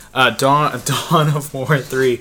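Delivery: slow, careful "Dawn of War three". Shown as a demonstration. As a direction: stretch out each word of "Dawn of War three". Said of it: "Let's say that a little slower".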